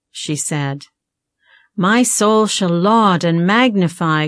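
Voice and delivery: measured recitation of a hymn; hymn verse reading. Acted. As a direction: read the verse out with deliberate phrasing. Reads a hymn verse aloud.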